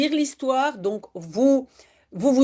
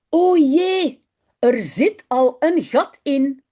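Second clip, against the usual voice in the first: dismayed; 4 dB louder, slower than usual. Acted. Mother discovers hole in trousers.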